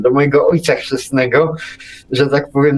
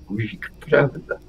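calm retort; 8 dB quieter than usual. Retold or imitated. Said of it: "mówił spokojnie to samo".

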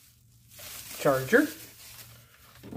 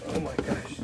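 awed whisper; 4 semitones lower, 9 dB quieter than usual. Real, not acted. Reacting to the fat wood.

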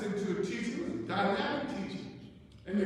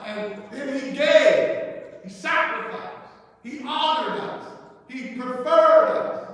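preaching build; 6 dB louder than usual. Real, not acted.

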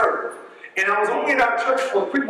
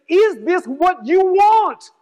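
slow, raised-pitch, drawn-out challenge; emphatic preached question; 8 semitones higher, 4 dB louder, much slower than usual. Retold or imitated. Preacher re-enacting the bishop's question to the congregation, slow and emphatic. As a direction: preach the quoted question, stretching each word.

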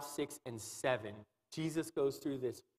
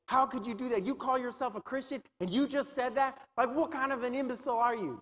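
Satan accusing; 4 semitones higher than usual. Retold or imitated. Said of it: "So he'll say".

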